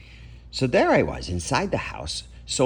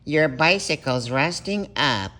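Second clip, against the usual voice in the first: yapped; 5 semitones higher than usual. Acted. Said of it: "he yapped".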